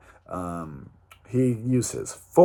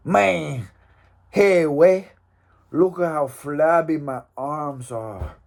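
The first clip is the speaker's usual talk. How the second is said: mock Mexican accent. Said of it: "that's not a good Mexican accent".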